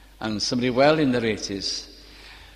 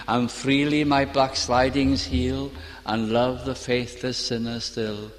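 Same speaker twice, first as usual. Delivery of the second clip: hymn recitation. Shown as a demonstration. Reciting hymn verse in sermon.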